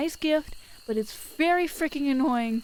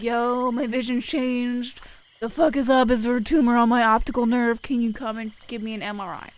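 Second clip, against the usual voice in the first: louder, alarmed rant at the doctor; panicked demand; 5 dB louder than usual. Pretend. Patient barging in to the doctor, loud and alarmed. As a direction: burst in demanding answers. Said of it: "Go to the doctor and be like".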